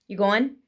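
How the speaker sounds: "going" reduced to go-un, rising; dropped g. Shown as a demonstration. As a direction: ask "You going" with an n ending, no g. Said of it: "it becomes I N instead of I N G".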